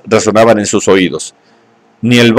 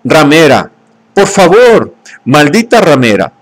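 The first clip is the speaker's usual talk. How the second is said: furious shouting; 4 semitones higher than usual. Acted. Savage shaking her in rage.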